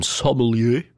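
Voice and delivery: put-on English pronunciation of sommelier; English accent. Shown as a demonstration. Presenter guessing how English speakers say sommelier, English accent. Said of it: "avec l'accent anglais".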